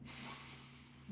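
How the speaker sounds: unvoiced hiss S, tongue between teeth; hissed S sound. Shown as a demonstration. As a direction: hiss the S like a snake. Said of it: "You put your tongue between your teeth and say".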